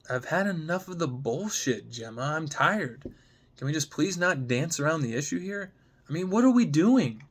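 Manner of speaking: fed up but still begging her to talk; frustrated plea. Acted. Sam fed up and pleading with Gemma, frustrated plea.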